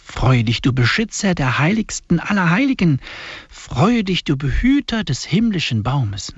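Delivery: solemn, measured liturgical reading; hymn recitation. Acted. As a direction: intone each line like a prayer. Reads the hymn aloud.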